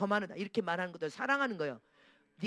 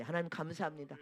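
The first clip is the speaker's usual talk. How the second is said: humble confession. Shown as a demonstration. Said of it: "해야 되는데".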